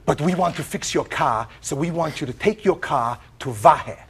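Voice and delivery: a hint of a French accent; French woman. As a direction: mimic the Frenchwoman giving instructions. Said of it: "the French woman".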